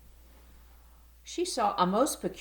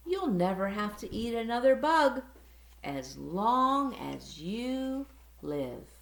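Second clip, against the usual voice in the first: gentle promise; 5 semitones higher than usual. Acted. Mother bat promises gently.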